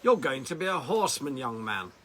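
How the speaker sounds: firm declaration. Retold or imitated. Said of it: "shouted down".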